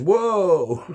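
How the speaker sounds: a hammed-up high yelp of "Whoa!"; mock computer verdict. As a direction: play a shocked machine giving its verdict. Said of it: "and it's like".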